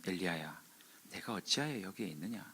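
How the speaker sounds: soft, low voice of God; still small voice. Retold or imitated. Preacher as God calling Elijah, hushed and low. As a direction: call gently, far below preaching volume. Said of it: "아주 세미한 음성이 들려서".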